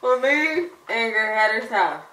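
slow, mushed through a mouthguard; wearing a mouthguard. Real, not acted. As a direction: speak with a mouthguard in. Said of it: "it's hard to understand".

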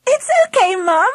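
high, giggly reassurance; light giggle in a girl's high voice. A narrator's reading. Angela to her mum after the prank, giggly. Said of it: "she giggled".

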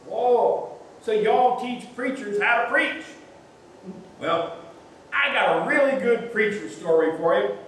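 a curious local leaning in; friendly Southern stranger. Retold or imitated. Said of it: "said a friendly voice".

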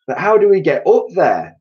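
high, loud bewildered question; puzzled asking. A narrator's reading. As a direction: ask it as a worried protest. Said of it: "they asked".

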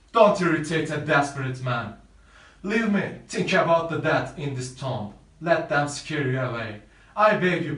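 a desperate man yelling at a rival to leave; desperate shouting. Acted. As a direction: drive him off, shouting. Romeo warns Paris to leave.

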